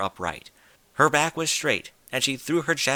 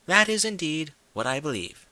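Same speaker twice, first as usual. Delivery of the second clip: refined lady; 6 semitones higher than usual. Acted. Rarity's lady voice.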